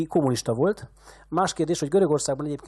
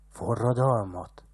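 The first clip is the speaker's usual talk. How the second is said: astonished question; much slower than usual. A narrator's reading. Shepherd stunned by the old man's accusation, astonished. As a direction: ask it stunned, half to yourself. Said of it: "kérdezte álmélkodva Manolius".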